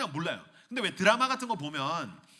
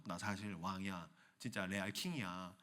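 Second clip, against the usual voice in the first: low quiet reveal; 8 semitones lower, 10 dB quieter than usual. Acted. King revealing.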